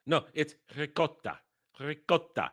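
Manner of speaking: "ricotta" with a rolled R and crisp double T. Shown as a demonstration. Irate reactor correcting a kid's ricotta, with a rolled R. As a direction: roll the R at the start of "ricotta". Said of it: "Gotta roll the R".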